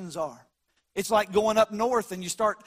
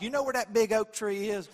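southern drawl. Retold or imitated. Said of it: "That's how we do it in the South".

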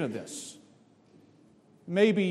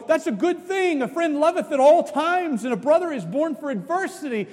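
approving pastor; 6 semitones higher than usual. Retold or imitated. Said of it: "I'm gonna go".

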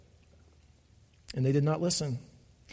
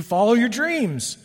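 slow, higher mock slogan; 5 semitones higher, slower than usual. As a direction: sing out the empty slogan with mild scorn. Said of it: "has been changed by our culture".

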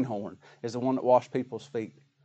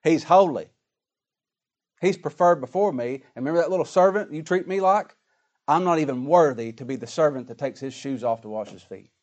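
bold confrontation. Retold or imitated. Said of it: "squared up to him ... and said".

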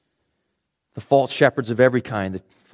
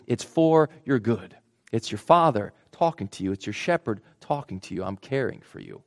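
reassuring God. Acted. God reassuring his people as shepherd.

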